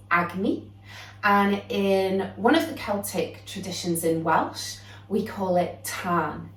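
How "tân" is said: Tân with a long, drawn-out A; elongated A. Shown as a demonstration. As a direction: stretch the vowel in Tân into a long "ah". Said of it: "We elongate that A sound".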